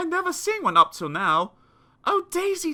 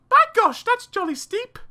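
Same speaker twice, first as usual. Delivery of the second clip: high, loud indignant mother; outraged at the price; mother's high indignant cry; 13 semitones higher, 6 dB louder than usual. Acted. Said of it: "She cried".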